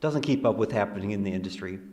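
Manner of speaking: sarcastic mock criticism in an even voice; deadpan sarcasm. Real, not acted. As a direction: say it straight-faced, as mock complaint. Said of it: "I'm being really sarcastic right now".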